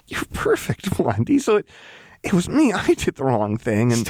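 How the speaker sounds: high, unsteady pleading voice; distressed. A narrator's reading. Jinx insisting to Lux it was her fault, distressed.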